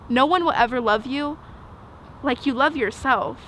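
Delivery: steady "No one will ever love you", a pause, then "like you love yourself"; even, unbroken opening with a resolved ending; self-affirming. Acted. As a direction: say it as assured self-acceptance. Same words turned into self-love at fifteen.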